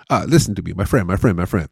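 put-on insistent hawker with a Persian accent; Persian-accented sidewalk sales patter; Persian street seller. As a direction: hustle a passer-by in a Persian accent. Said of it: "as a guy, like, on the streets".

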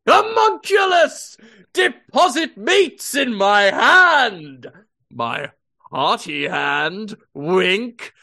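loud, slow, high commanding bellow; hammy Hardy Holmes. Pretend. Character demanding meat from a kid, loud hammy bellow. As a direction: command like a pompous lord.

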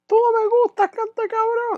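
very high, put-on woman; high girlfriend insult voice. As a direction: taunt him like his ex. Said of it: "diciéndome". (voz muy aguda de la novia despreciando)

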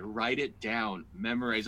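slow, measured directive; firm instruction. Retold or imitated. Wife coaching her husband on his set, slow and firm. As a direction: lay it out slowly, word by word.

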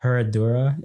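Herradura with an English H and R; anglicized pronunciation. Real, not acted. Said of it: "No, the H is silent".

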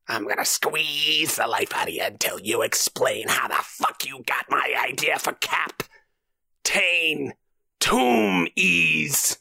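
raspy whispered threats, rising to a shout; menacing Willem Dafoe. Retold or imitated. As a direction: lean in and hiss the threats, then bellow.

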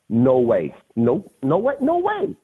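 rising pitch through each "no way"; stunned teammates refusing to believe; shocked disbelief. Retold or imitated.

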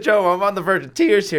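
high and loud, overwhelmed; emotional exclamation. Retold or imitated. Golfer to friend after hearing his name drawn, overcome. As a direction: blurt it out while hugging him. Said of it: "I said".

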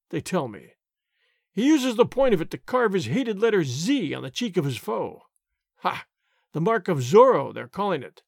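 lightly voiced blustering sergeant; angry tirade. Sergeant mocking Zorro before the tavern men, mildly angry bluster. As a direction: scoff and boast through the rant. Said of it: "continued his tirade".

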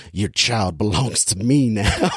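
slow, sinister, gentle menace; mock-creepy, lightly voiced; menacing Mister Rogers. Parodying Rogers on the phone to the wife, slow menace. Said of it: "the way he delivers it is just".

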